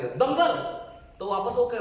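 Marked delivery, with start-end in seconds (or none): 0.0-0.5 दंगल asked with a rising tune; questioning echo. Shown as a demonstration. Teacher showing how to parrot a friend's movie, दंगल as a question. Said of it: "दंगल शब्द लगा देंगे और question mark लगा देंगे".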